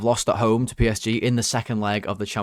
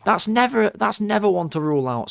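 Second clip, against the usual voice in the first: high-pitched, exasperated venting; worked-up high protest; fuming; 9 semitones higher than usual. Real, not acted. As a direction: vent indignantly, voice raised in pitch. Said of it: "I was fuming at him".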